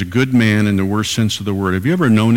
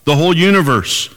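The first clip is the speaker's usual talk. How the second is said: rising emphasis; 5 semitones higher than usual. Acted. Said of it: "Jesus said this".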